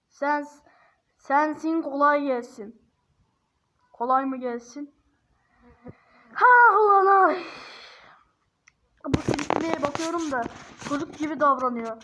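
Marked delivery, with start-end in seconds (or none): 6.3-7.4 loud, high, drawn-out exclamation; shocked outburst. Real, not acted. Reacting loudly to the chatbot's shocking answer, astonished. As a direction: blurt it out in disbelief, slowly.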